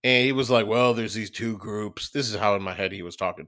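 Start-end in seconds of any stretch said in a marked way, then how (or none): 0.6-2.1 deep sultry voice. Retold or imitated. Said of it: "he's got some deep, sultry voice".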